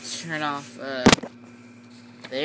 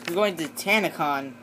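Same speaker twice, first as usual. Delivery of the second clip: "You're going to Tanacon" said again, clearer and a bit louder after "What?"; repeated louder. Acted. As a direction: say "You're going to Tanacon" again for someone who didn't hear.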